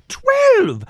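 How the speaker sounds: very high, loud shout; exasperated shout. A narrator's reading. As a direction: yell the number in disbelief. Baker shouts the count.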